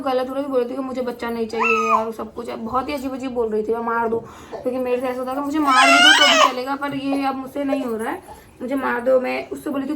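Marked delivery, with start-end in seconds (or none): 3.7-9.2 louder, tearful retold begging; half-sobbing shouted plea from labour; crying plea. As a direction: replay the desperate cry to be killed.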